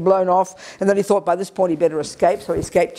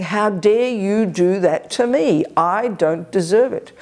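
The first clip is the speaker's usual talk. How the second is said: slow, drawn-out mock indignation; wounded ego voice; slower than usual. Anger speaking for the unhappy me, slow mild indignation. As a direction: lean slowly on the grievance. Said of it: "It's the voice of ego grasping".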